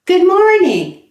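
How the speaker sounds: "Good morning" with the G sounded clearly; formal greeting. Shown as a demonstration. Teacher leading students in the formal "Good morning". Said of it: "Make sure you add the G sound".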